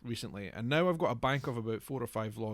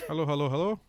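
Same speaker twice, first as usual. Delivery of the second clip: silly greeting; 4 semitones higher, 6 dB louder than usual. Pretend. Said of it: "without speaking like an idiot".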